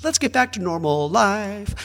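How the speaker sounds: high, slow, fake-cheerful; mock-bright brushing off grief; chirpy mock American. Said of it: "Americans immediately are like".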